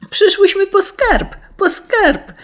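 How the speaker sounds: put-on girl excitedly tells her uncle about the treasure; joyful shout. A narrator's reading. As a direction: shout it gleefully, hopping about. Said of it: "zawołała Juzia, skacząc radośnie".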